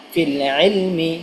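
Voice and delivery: drawn-out reading of ফিল ইলমি; slow recitation. Shown as a demonstration. Teacher to students, joining the spelled word, slow recitation. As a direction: stretch ফিল ইলমি slowly. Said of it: "teacher demonstrates Quran word".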